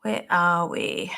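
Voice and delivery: slow breathy whisper to herself. Real, not acted. Medium on her live stream, whispering to herself. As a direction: whisper it slowly under your breath.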